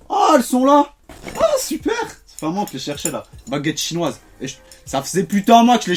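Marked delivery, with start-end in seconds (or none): 0.1-1.9 high, delighted surprise; surprised. Real, not acted. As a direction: squeak with glad surprise. Finds lost chopsticks.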